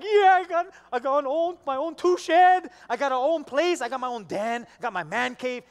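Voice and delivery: loud, high, gleeful mock yelling; screaming for joy. Husband's inner voice about his man cave, screaming for joy. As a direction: blurt it out like a man bursting with joy. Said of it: "on the inside, you're screaming for joy".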